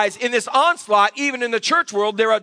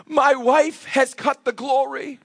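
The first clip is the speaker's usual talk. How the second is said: slow mock lament; mock tearful husband; 3 semitones higher, slower than usual. Husband confiding in the pastor about his wife, mock tearful. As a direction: imitate a distraught husband, drawn out. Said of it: "But he starts crying".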